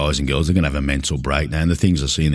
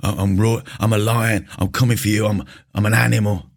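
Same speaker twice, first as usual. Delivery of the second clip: mock gym bro; 4 semitones higher than usual. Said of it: "you hear them talking".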